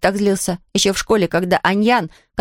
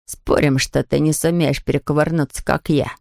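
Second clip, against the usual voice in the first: low, bragging dare; boastful kid; 8 semitones lower than usual. A narrator's reading. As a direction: brag and challenge. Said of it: "Ком расхвастался".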